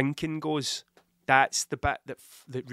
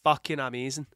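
Scottish accent demo. Shown as a demonstration. Showing how good some words sound, Scottish accent. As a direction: show off the phrase in a Scottish accent. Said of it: "when you say them with this accent".

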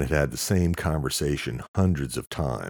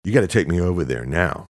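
louder, pushing for the ride now; urgent demand; 5 semitones higher, 6 dB louder than usual. Acted. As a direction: hurry the driver along.

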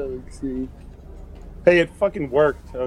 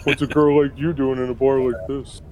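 cheesy barfly come-on; oily flirt at the bar; sleazy pickup line. Acted. Soldiers hitting on her.

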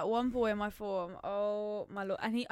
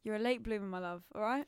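mock reassuring; 3 semitones higher than usual. Mock consoling a friend.

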